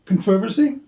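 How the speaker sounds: CONTROVERSY stressed on the second syllable, con-TROV-ersy; British-style stress inside controversy. Retold or imitated. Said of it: "put the emphasis on the wrong syllable".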